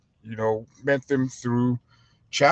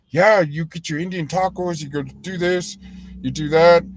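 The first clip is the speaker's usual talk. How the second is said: higher-pitched, lightly imitated slangy patter; imitated California slang talker; 4 semitones higher, 3 dB louder than usual. Retelling how a man from California talked, lightly imitated. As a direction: imitate his way of talking. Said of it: "just the way he was talking".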